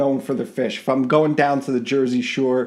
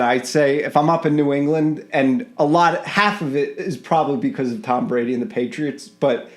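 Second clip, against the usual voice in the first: put-on a light Boston accent on chowder and lobster; a touch of Boston accent, half joking; Boston accent attempt. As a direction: lean into a mild Boston accent. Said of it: "my attempt at Boston accent".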